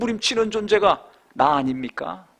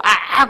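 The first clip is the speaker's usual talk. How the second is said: mock ouch; 5 dB louder than usual. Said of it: "조금만 찔러보세요".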